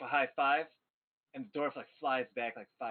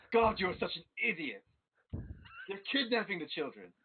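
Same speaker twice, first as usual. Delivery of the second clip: exasperated scolding; 4 semitones higher than usual. Acted. Master scolds his dim servant.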